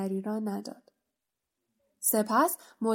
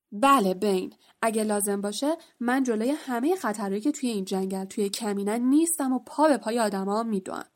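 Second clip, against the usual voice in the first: enraged centaur shouting down his rival; angry shout. Acted. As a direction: roar back at him, then stand firm. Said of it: "فایرنز با عصبانیت سر بین فریاد کشید".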